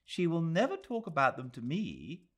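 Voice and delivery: a quick, curious interruption; Miss Quested. A narrator's reading. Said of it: "said Miss Quested, unintentionally breaking a spell".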